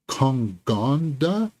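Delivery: Kongonda drawn out slowly, feeling out each syllable; slow, questioning stab at "Kongonda"; unsure name attempt. Real, not acted. Reviewer sounding out a director's name, unsure of "Kongonda". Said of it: "I'm sorry if I butchered that name".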